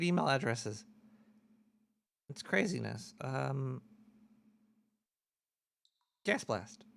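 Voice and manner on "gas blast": much lower, softer intoned name; low murmur. Acted. Host announcing the segment again, low and soft.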